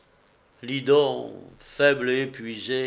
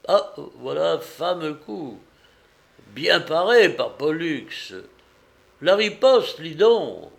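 higher, punchy ringside exclamations; excited cheering; 4 semitones higher, 5 dB louder than usual. A narrator's reading. Neighbour following the gladiators' fight aloud, excited cheering. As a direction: call out each blow as you watch.

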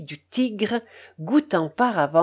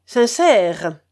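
Sincère repeated louder, amazed; surprised; 6 dB louder than usual. Acted. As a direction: echo Sincère in disbelief. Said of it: "d'un air étonné".

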